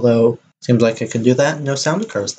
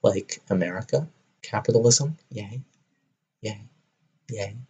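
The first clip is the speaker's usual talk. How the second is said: low, very soft, listless cheering; deadpan mock cheer; 4 semitones lower, 9 dB quieter than usual. Joking about America's long TV seasons, deadpan mock cheer. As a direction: cheer with no enthusiasm at all.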